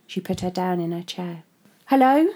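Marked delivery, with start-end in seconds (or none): 1.9-2.3 resentful. Acted. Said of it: "she said, resenting".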